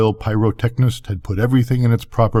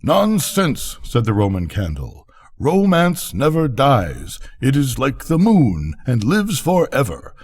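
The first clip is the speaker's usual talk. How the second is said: much higher, haughty firework voice; scolding Roman candle; 5 semitones higher than usual. A narrator's reading. Big Roman candle scolding the squib, high and haughty. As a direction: lecture the foolish squib from above.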